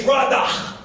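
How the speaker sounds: radah, both a's open like father; the Hebrew word radah spelled out slowly. Shown as a demonstration. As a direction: say radah as RAH-dah, broad open a sounds. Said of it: "in the Hebrew language is".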